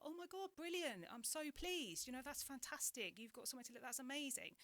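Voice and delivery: high, bright burst of joy; delighted. Retold or imitated. Telling the boy she's thrilled for him, excited. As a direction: gush with relief and delight. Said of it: "and I was like".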